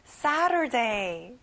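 very slow "Saturday", strong SA and no hard T; stressed SA, no T. Shown as a demonstration. Teacher modelling it for children, "Saturday" with SA stressed and T not sounded. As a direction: say "Saturday" slowly, stressing SA, dropping the T. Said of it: "T 발음은 안 나요".

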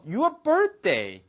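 "birthday" said fast as "bətdei", th softened; linked birthday. Shown as a demonstration. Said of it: "발음이 birthday라고 안 들리고요". (birthday를 bətdei처럼 빠르게 이어서)

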